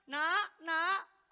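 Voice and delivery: mild mock shout of a crowd; calling out. Many people calling their children, mock shout. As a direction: call out as other parents would. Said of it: "banyak orang teriak".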